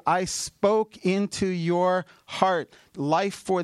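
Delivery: lightly voiced God speaking through the preacher. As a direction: speak it as God's own voice, deliberately slow. Preacher voicing God's words.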